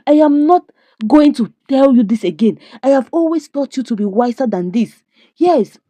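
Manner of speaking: scolding father. Retold or imitated. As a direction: lecture the child sharply from above. Father scolding his child.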